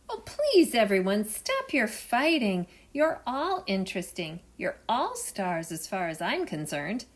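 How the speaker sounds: soothing explorer. Acted. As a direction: stop the quarrel kindly.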